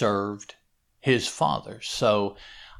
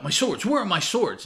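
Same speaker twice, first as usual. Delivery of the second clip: higher and louder, urgent shout; 9 semitones higher, 5 dB louder than usual. Retold or imitated. Usagi shouting for his swords as the village is attacked. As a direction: call for your swords in a rush. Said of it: "He jumps up and shouts out".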